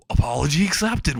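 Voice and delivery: half-hearted scream back at the villain; mock scream. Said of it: "while screaming".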